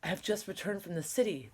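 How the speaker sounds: breathless rushed report; out of breath. Acted. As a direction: gasp it out fast. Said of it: "the neighbor gasped".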